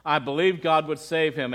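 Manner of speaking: low, subdued retelling of a tearful widow; understated grief; mild retold sobbing. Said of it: "she sobbed".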